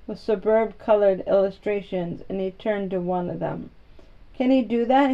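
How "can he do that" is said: eager, a little louder; an eager boy asks about the snake charmer; eager question. Acted. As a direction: lean in eagerly to ask. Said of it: "he asked eagerly".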